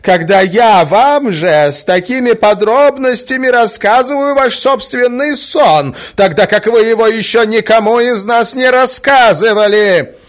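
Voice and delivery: high, loud despairing plea; exasperated mother pleading with the prince; distraught. A narrator's reading. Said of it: "убивалась Марья Александровна".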